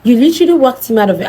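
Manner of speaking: retold angry outburst. Telling off the best friend who won't answer, put-on anger. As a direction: act out building anger at the friend. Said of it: "let me activate my anger".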